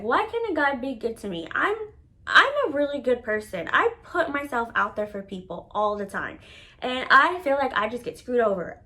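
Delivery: mildly plaintive venting, pitch lifting on the questions; retold upset. Woman venting to mom on the phone, mock-tearful plaint. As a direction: retell a distressed outpouring without real tears. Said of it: "I'm hysterical. I'm crying".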